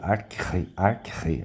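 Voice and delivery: "arche" said ar-KRRÊ, k fused with a guttural r; K and R together. Shown as a demonstration. Teacher imitating his Greek neighbour's pronunciation, k-r blended. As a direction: blend k and throaty r at once in "arche". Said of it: "Seria um K e um R ao mesmo tempo".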